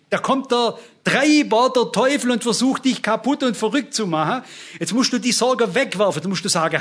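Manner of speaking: emphatic preaching. Real, not acted. Preacher telling believers to throw worry onto the Lord, emphatic preaching. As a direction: press each point home to the congregation.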